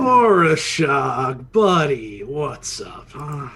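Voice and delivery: slow, loud drawn-out name; mock buddy greeting. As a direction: stretch the name like an old pal. Player greets NPC bowler.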